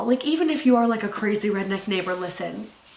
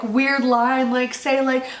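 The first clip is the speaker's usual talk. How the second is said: ordinary talk, nothing marked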